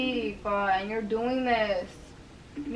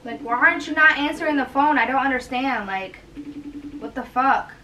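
exasperated; 5 dB louder than usual. Real, not acted. Frustrated wife calling him.

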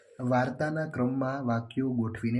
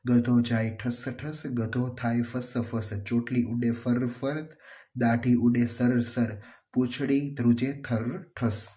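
slow, measured verse reading; rhyme recitation; slower than usual. Shown as a demonstration. Teacher reading a playful donkey rhyme to pupils, slow recitation. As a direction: draw out each line of the rhyme.

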